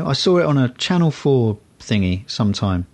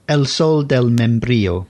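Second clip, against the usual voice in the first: Spanish accent; slower than usual. Shown as a demonstration. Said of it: "Are you gonna say this in a Spanish accent?".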